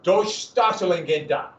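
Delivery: slow German word in an American accent. Real, not acted. Teacher attempting a long German term for the class, American accent. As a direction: sound out the German haltingly with American vowels. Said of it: "I mispronounce it horribly".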